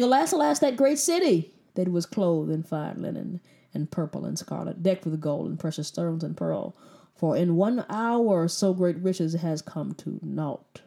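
solemn Bible reading, lamenting; scripture reading. Acted. Reads scripture aloud.

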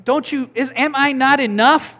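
high, whiny pleading husband; mock husband. Preacher voicing Elkanah asking his wife, high and whiny. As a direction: play the needy husband asking for reassurance.

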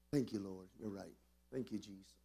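low, soft thanks to God; quiet prayer aside. Real, not acted. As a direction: drop to a private murmur of thanks. Aside to God mid-sermon.

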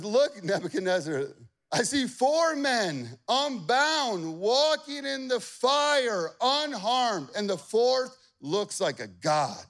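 high, loud, slow astonished cry; amazed. Acted. Advisor telling the king in amazement. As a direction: gasp it out in awe.

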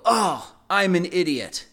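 mock exasperated boy; self-scolding son. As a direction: groan it like a kid angry at himself.

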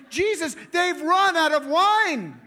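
high, loud, slow panicky plea; Mary panicking to Jesus over the wine, high and loud; freaking out. Retold or imitated. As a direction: play Mary's panic. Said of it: "she's freaking out".

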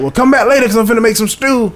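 quick, easygoing country invite; country neighbor. Retold or imitated. Neighbor inviting them back for stew, lightly mimicked. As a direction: toss it off like a cheerful old country man. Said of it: "he was like".

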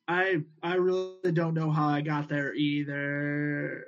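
slow, trailing off as if nodding off; mock drowsiness. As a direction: let the last word drag out sleepily. Character drowsy from something he took.

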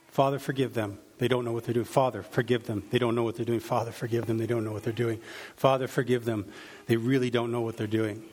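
low, murmured prayer on a loop; repeated prayer. Retold or imitated. Jesus praying over and over on the cross, repeated low prayer. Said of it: "he was praying this over and over".

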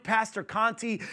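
usual speaking voice

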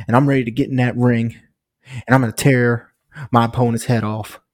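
Honky Tonk Man impression. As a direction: cut a fired-up wrestling promo. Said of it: "That was a great Honky Tonk Man impression".

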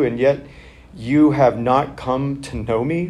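measured, low scripture reading. Acted. Pastor reading John to the congregation, measured and low.

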